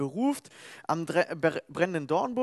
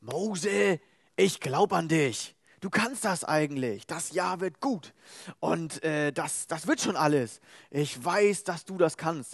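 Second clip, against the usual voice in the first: motivation coach. Acted. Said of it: "wie so ein Motivationscoach".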